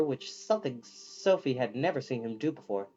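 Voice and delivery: ordinary delivery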